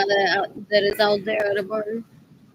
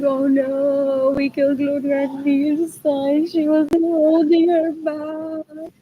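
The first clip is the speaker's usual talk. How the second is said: louder, slowed mock voice of the siblings; 4 semitones higher, 3 dB louder than usual. Mocking siblings' fake dismay over Gloria Nilsson, loud mock voice. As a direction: parody their fake dismay. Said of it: "They're like".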